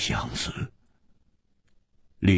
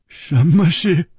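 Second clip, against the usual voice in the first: tense demand; 7 semitones higher, 5 dB louder, slower than usual. Acted.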